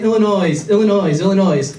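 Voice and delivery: "Illinois" repeated with a voiced S at the end, each one falling; pronounced S, repeated. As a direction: nag with "Illinois" sounding the S. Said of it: "He keeps on saying".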